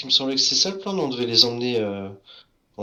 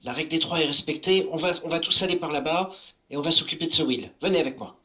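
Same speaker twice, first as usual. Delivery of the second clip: gnome voice; 3 semitones higher than usual. Acted. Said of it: "je vais dire aux enfants".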